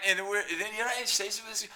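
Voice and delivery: ordinary talk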